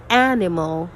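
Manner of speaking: "animal" with a strong opening a; teacher modelling front stress in "animal"; first-syllable stress. Shown as a demonstration. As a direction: punch the first syllable of "animal", let the rest fall away. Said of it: "the first syllable".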